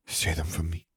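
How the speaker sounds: soft, intimate murmur. A narrator's reading. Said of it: "she murmured".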